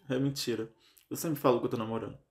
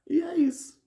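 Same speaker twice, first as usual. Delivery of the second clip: sing-song resignation; 4 dB louder than usual. Real, not acted. Resigned sign-off on money woes.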